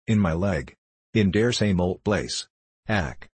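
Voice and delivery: put-on old man with a German accent; German-English, understated complaint. Father telling where it hurts, German accent. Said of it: "the old German".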